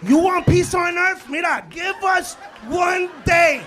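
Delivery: slow, loud, pleading rant; loud comic plea. Real, not acted. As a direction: beg the crowd for one day, slowly.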